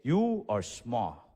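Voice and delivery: slow flat statement of fact; blunt grandparent. Retold or imitated. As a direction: grandparents bluntly telling the small kid, slow. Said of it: "They would always tell me".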